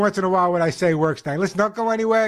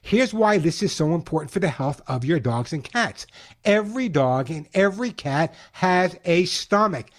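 slowed, upbeat radio ad read, leaning on key words; radio host pitching the sponsor's food to listeners; 2 semitones higher than usual. Acted. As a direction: sell the pet food like a live radio spot.

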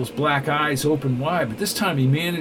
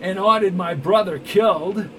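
louder, higher sudden accusation; raised voice; 4 semitones higher, 4 dB louder than usual. Acted. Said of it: "all at once raised his voice".

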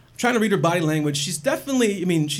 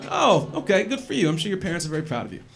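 sarcastic; faster than usual. Retold or imitated. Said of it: "It's like".

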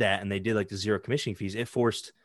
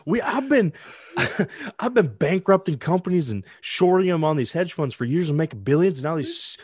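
pitched way up, a cackling hedge fund voice; mock billionaire boast; 8 semitones higher, 5 dB louder than usual. Friend plays a hedge fund billionaire bragging about shorting, in a high mock voice. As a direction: lampoon a smug billionaire bragging.

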